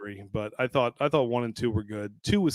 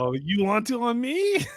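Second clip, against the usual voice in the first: Mister Chow impression; 10 semitones higher, slower than usual.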